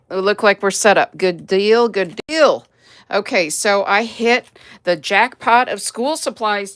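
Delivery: loud, eager opening of a haul; excited. Real, not acted. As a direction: burst in with delight about the bargains.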